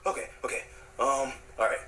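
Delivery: normal talking voice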